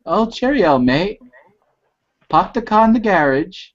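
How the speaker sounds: failed attempt at a British accent, barely shifted; half-hearted mock British accent; bad British accent. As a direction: try a posh British accent and miss. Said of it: "I can't really do a limey accent".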